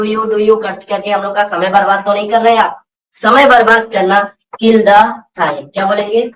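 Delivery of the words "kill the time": very slow, word-by-word phrase; teacher dictating a phrase at half speed; slow model phrase. Shown as a demonstration. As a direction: drill it slowly for the class to repeat.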